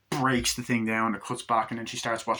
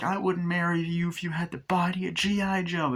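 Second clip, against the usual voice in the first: high put-on voice; imitated indignant bride; scornful doll comeback; 6 semitones higher than usual. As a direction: throw it back with scorn.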